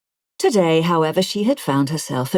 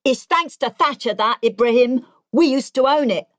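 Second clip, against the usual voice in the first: raised, ranting pensioner voice; indignant old man; 7 semitones higher than usual. Acted. Ron rants at Ibrahim about Thatcher, raised indignant voice. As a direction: jab the point home, aggrieved. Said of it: "stand up and stab a finger".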